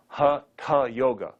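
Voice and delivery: HATHA split in two with a strong puff after the t; emphatic demonstration of "Hatha" with breathy th as t-h; aspirated t. Shown as a demonstration. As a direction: say "Hatha" as hat-ha, deliberately. Teacher separates the aspirated t.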